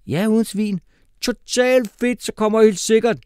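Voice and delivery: grin through it; glad. A narrator's reading. Mohammed happily accepts the Christmas invitation. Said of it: "sagde Mohammed glad".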